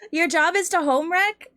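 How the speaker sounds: high, loud, through laughter; laughing disbelief. Real, not acted. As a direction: laugh out the question. Laughing incredulous question.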